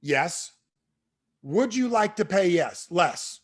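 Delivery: slow, over-emphatic sales question, then the direction; mock novice reciting a script; clueless script reading. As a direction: read cue and line alike, with pauses between. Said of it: "This is my script".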